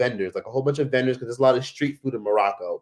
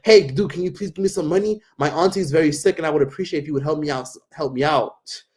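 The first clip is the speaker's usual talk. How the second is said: mock pleading stranger; 3 semitones higher than usual. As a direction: wheedle for money for a sick aunt. Guy asking for money.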